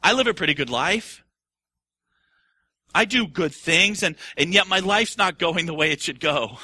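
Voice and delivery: lightly voiced complainer, slowing; a hint of a sulky whiner; self-pitying voice. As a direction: grumble about life's unfairness. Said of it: "I say".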